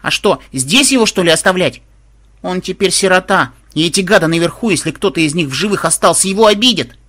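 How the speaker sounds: high, indignant granddaughter's plea; crying out. A narrator's reading. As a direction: plead loudly for the orphan. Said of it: "неожиданно закричала внучка". (возмущённая высокая речь внучки)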